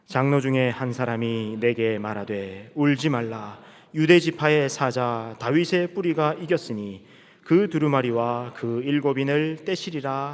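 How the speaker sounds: 느리고 또박또박한 성경 봉독; 회중과 함께 읽듯 길게 끌며 낭독하기. Real, not acted. (느린 성경 낭독조)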